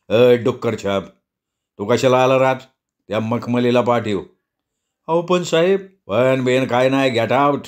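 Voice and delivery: scornful boss shouting him out; snapping boss. Acted. The officer snaps at constable 404. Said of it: "साहेब खेकासला".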